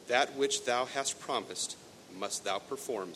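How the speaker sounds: slow, solemn king's decree; stern king. Acted. King commanding his daughter, slow solemn decree. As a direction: pronounce it slowly as law. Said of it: "said the king".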